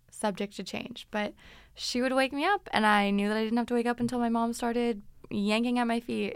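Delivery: ordinary delivery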